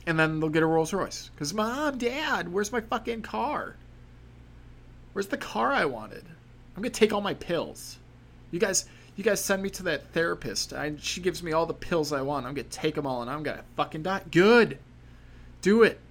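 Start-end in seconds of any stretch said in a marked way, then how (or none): 1.5-14.2 put-on whiny rich kid. Bratty kid voiced in routine. 14.3-16.0 loud harsh shout back, higher; yelling across the room. Acted. Yelling reply to the brat.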